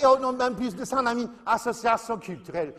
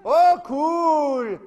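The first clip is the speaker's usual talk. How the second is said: put-on louder, lifted teen gush; mock delighted daughter; 5 semitones higher, 5 dB louder than usual. Mother imitating her daughter's reply about the coffee, mock delighted. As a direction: toss it off like a thrilled teenage girl.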